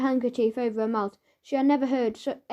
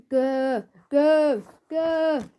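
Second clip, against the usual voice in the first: growls climbing higher and louder; rising growls; 3 semitones higher, 4 dB louder, much slower than usual. Acted. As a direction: growl three times, building.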